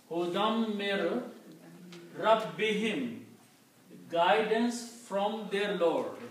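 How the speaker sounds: hudam mir rabbihim, slow, doubled m and b; staccato. Shown as a demonstration. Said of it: "say that word letter twice".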